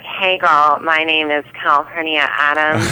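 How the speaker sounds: a hint of a pinched, nasal drag queen voice; lightly pinch it through the nose; mildly nasal, pinched drag queen greeting. Shown as a demonstration. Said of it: "a nasal pinched voice".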